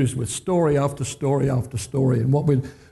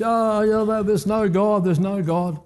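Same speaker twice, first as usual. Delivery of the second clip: mock yell; 5 semitones higher than usual. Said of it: "he'd yell over the fence".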